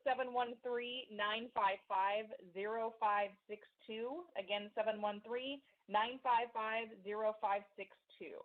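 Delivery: slow, spaced-out digits; slow number readout. Real, not acted. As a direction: read the phone number slowly. Reading call-in number on air.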